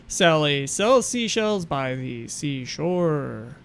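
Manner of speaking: measured, deliberate tongue-twister recital; mic-test recitation. Shown as a demonstration. Speaker testing the camera's audio with a tongue twister, measured recitation. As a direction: recite it slowly in repeating rise-and-fall tunes.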